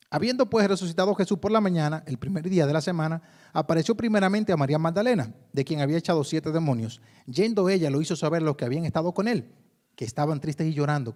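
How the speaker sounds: lectura proclamada, más fuerte; lectura bíblica. Acted. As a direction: leer la Escritura a la congregación. Reads scripture aloud. (proclamando el texto ante la iglesia)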